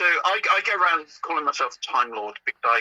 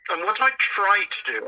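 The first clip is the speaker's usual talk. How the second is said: "try" lifted higher; stress on try; 5 semitones higher than usual. Shown as a demonstration. Telling the host what he attempts, stressing "try". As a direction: lean on the word "try". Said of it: "I emphasize the word try".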